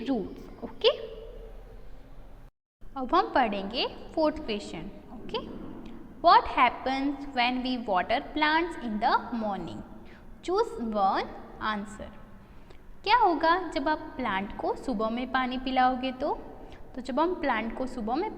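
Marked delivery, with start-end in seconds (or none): 6.2-12.1 slow reading aloud. Shown as a demonstration. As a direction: read the question out very slowly and clearly. Teacher reads question aloud.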